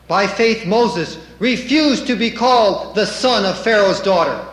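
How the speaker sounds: loud, declaimed Bible verse; scripture reading. Acted. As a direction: proclaim the verse firmly from the pulpit.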